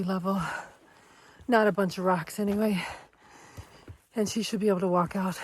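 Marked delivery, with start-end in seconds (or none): 4.1-5.4 winded, breathing hard between words. Real, not acted. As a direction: talk while catching your breath. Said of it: "Oh, I'm out of breath".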